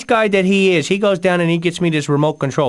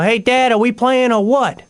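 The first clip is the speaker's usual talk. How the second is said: yell; 6 semitones higher than usual. Retold or imitated. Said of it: "stand up and yell".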